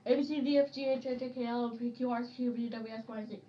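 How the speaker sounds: very fast letter rattle; fast alphabet. Shown as a demonstration. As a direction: blitz through every letter. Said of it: "I'm faster".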